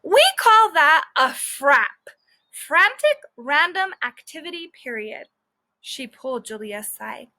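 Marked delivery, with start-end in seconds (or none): 0.0-5.3 teacher explaining. Acted. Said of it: "said the teacher".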